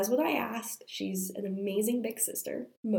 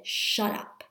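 angry hissed whisper. Retold or imitated. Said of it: "I lost it".

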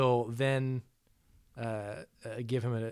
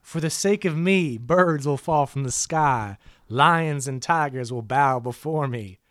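loud, slow, grandiose villain speech; megalomaniac rant; 5 dB louder, slower than usual. Retold or imitated. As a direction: proclaim it like a mad tyrant. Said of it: "That monologue was very much out of place".

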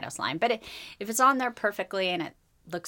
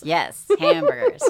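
excited; 12 semitones higher, 8 dB louder, slower than usual. Real, not acted. Excited about her addiction.

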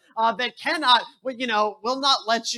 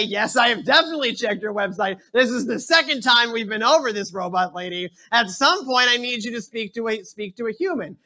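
louder, fed-up argument with a robot; exasperated caller; 3 dB louder than usual. Retold or imitated. Caller scolding the robot lady, fed-up and loud. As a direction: lose patience, mock indignation.

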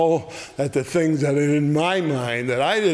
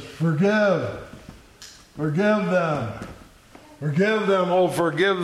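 mildly raised calling plea; loud voice; 3 semitones higher than usual. Acted. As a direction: call it out, not at full volume. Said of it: "that's a loud voice coming from the cross".

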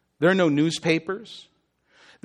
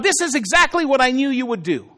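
accusing; 5 semitones higher than usual. Acted. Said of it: "And he was telling God".

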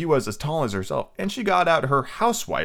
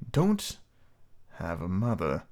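villain voice; 3 semitones lower, 6 dB quieter, slower than usual. Acted. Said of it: "smooth talking villain voice".

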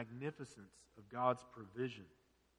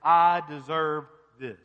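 entitled claim; 9 dB louder, slower than usual. Retold or imitated. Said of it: "the first assumption is".

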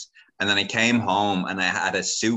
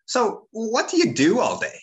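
much higher, prying cousin voice; nosy cousin; 3 dB louder than usual. Retold or imitated. Cousin voiced in retold grilling.

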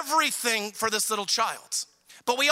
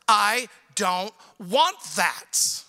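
put-on whiny child; 3 semitones lower, much slower than usual. Whiny child refusing dinner.

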